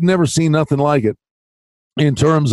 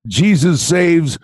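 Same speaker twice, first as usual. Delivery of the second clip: bumper sticker slogan; slower than usual. Acted. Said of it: "bumper sticker that says".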